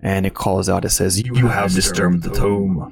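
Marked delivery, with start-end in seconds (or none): 1.2-2.8 magically amplified voice. Acted. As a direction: boom it out like thunder. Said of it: "the voice is a crash of thunder in the volume".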